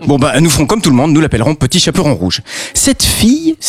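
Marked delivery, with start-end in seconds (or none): 2.7-3.6 sudden squeak. A narrator's reading. Narrator squeaks a word.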